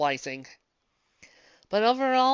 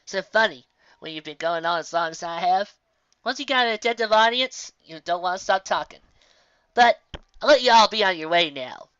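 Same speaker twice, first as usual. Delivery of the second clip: put-on louder, folksy old frontier lady; old country woman; 7 dB louder than usual. Old woman thanking the audience for listening, hearty and loud. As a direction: hold the voice of a hearty old woman who loves to talk. Roanoke says goodbye.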